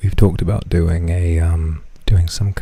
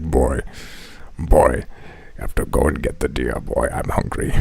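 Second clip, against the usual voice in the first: lower, grumbling order to the son; Kratos voice; 8 semitones lower, 4 dB quieter than usual. Pretend. Pretend Kratos sending his son for deer, deep. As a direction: drone it like a hungry grim father. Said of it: "I'm like".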